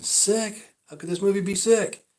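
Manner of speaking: high-pitched, incredulous questioning; baffled inner reaction. Retold or imitated. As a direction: act out bewildered disbelief. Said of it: "You know, I'm thinking".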